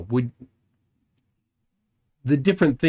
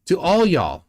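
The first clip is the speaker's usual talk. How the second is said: Texan y'all; 5 semitones higher than usual. Shown as a demonstration. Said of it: "not from Texas, but that's how they'd say it".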